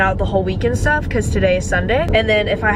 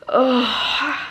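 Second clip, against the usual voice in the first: tired groan; 4 semitones higher than usual. Real, not acted. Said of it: "I could literally cry".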